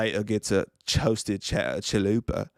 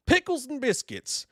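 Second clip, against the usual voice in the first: pitched way up, mock squeal; high goofy exclamation; squeaky silly voice. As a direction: squeak it out like a cartoon.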